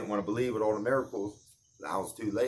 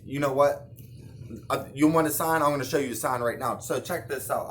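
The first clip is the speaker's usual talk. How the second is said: loud, irritated show-off challenge; you want a sign? I'll show you; irritated Jesus; 2 semitones higher, 5 dB louder than usual. Pretend. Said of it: "I'd be kinda irritated".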